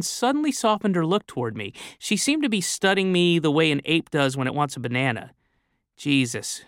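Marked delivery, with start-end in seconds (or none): 6.0-6.6 a touch of tenderness on one word; tender. Acted. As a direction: say it gently, lightly acted. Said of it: "she said tenderly".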